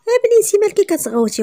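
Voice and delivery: high, loud scolding cry; scolding shout. Acted. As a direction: yell at the girl in disbelief. Woman scolds shouting girl. (صراخ عتاب عالي)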